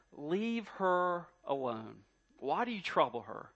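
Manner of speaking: gentle Jesus. Acted. Jesus quoted defending the woman.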